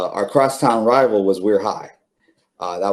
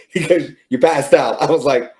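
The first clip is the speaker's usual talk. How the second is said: laughing; 5 semitones higher, 4 dB louder than usual. Real, not acted. Laughing while retelling coach's words.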